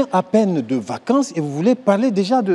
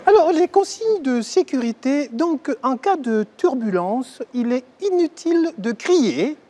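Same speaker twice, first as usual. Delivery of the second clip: flight attendant announcement; 3 semitones higher than usual. Acted. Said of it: "C'est moi, l'hôtesse".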